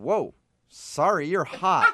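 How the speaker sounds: mock dazed, blank, stunned deer-in-headlights manner. Speaker acts out the other driver's reply after yelling about the crash, mock-stunned, deer in headlights. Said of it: "deer in headlights goes".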